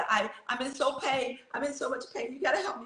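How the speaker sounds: high, soft, pleading voice; retold pleading in pain. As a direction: beg the doctor for help, small and hurting. Begging her doctor in pain.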